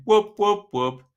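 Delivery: celebratory whoops; excited whoops. Real, not acted. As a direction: cheer it out. Celebrating a goal result.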